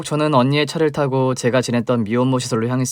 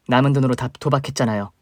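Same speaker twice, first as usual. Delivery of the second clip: usual speaking voice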